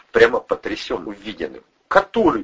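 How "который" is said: high, bleating question; a high, sheepish bleat; timid bleat. A narrator's reading. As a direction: bleat it like a cowed captive. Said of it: "проблеял Любчик".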